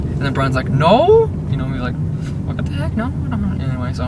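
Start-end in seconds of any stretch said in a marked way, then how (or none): 0.7-1.3 high, loud mock-indignant no; incredulous denial. Voicing Brian's indignant denial. 2.4-3.6 high-pitched imitation of a confused kid; mock bewilderment, pitched way up; baffled denial. Voicing Brian's baffled reply.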